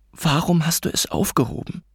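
mother's contained challenge; suppressed arguing. A narrator's reading. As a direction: press the accusation, voice held in. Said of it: "energisch, jedoch mit unterdrückten Stimmen".

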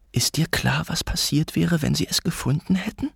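mother's contained challenge; suppressed arguing. A narrator's reading. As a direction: press the accusation, voice held in. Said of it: "energisch, jedoch mit unterdrückten Stimmen".

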